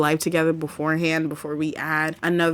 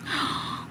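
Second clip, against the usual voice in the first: gasp; 10 dB quieter than usual. Real, not acted. Gasps at what appears in game.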